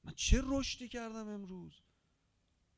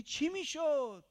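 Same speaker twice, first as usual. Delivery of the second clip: slow drawn question; 7 semitones higher, 6 dB louder, much slower than usual. Real, not acted. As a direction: drag "میشد" out and let it fall. Same question, slower take. (آهسته و کشیده)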